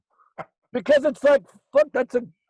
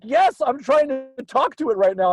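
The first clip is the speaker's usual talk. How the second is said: retold friend; 9 semitones higher, 5 dB louder than usual. Friend's reply voiced.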